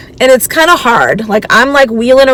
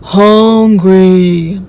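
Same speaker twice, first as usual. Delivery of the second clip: whiny complaint; much slower than usual. Retold or imitated. Jenny whining she is tired.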